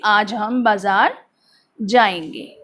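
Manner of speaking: low-key statement that falls on जाएंगे; telling statement. Shown as a demonstration. Teacher acts telling someone about going to market, telling statement. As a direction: tell it simply, pausing after बाजार, then जाएंगे low. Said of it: "आप किसी को बता रहे हो".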